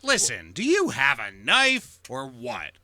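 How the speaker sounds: slow, pointed bully demand; mock-tough interrogation; knife-toting bully. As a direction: press the question like a cartoon tough. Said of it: "That's how they talk".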